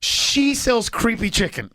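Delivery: slow, lightly imitated Puerto Rican accent; hint at a Puerto Rican accent, slowly; mild mock Puerto Rican accent; thick Puerto Rican accent. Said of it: "Her accent is so thick".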